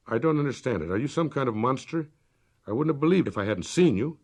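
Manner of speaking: a hint of a cold, clipped woman; lightly voiced stern spinster, words clipped; cold sister confronting Amy, clipped and sure. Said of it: "a cold, sure voice. The words clipped".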